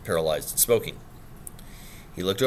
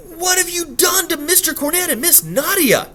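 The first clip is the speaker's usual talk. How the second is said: put-on country bumpkin accent; 5 dB louder than usual. Kitchen girl accusing the gentleman, in a loud high country accent. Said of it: "threw a little extra bumpkin into her country accent".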